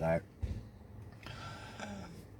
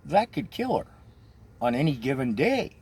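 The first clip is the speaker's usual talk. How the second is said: high, alarmed warning; aghast friend; 5 semitones higher than usual. Retold or imitated. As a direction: gasp it out in horror. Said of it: "She's like".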